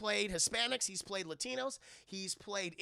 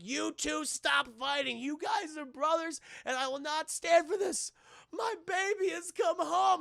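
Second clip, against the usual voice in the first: higher, louder, slow mama voice scolding her sons; 8 semitones higher, 4 dB louder than usual. Retold or imitated. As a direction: play the big mama laying down the law, slowly. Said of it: "And she's like".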